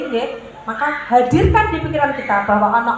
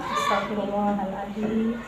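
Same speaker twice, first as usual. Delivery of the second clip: softer and slow, exhaled on the breath; slow soft istighfar; 6 semitones lower, 11 dB quieter, slower than usual. Shown as a demonstration. Mother exhaling after a deep breath, slow soft istighfar. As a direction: let it out slowly, almost a sigh. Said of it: "keluarkan pelan-pelan sambil ucapkan".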